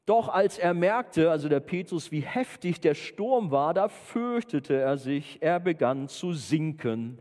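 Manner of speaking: slow, emphatic Bible reading; dramatic scripture reading. Acted. Preacher reads of the storm and sinking, dramatic reading. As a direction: stretch the words as the danger builds.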